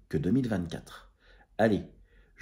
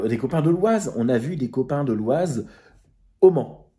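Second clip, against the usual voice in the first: rising thrilled exclamation; excited; 4 semitones higher, 4 dB louder than usual. Real, not acted. Vlogger hailing friends from the Oise, excited. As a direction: voice jumps up with delight at seeing friends.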